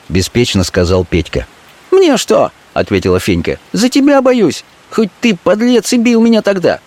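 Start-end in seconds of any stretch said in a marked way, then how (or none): 1.9-2.5 high scornful woman's voice; a street girl scoffing at the threat; Fenka contemptuous. Acted. Fenka's voice held. 3.7-6.8 high pleading woman's voice; high, half-pleading; a street girl fearing for her man; Fenka. Acted. Fenka's voice held.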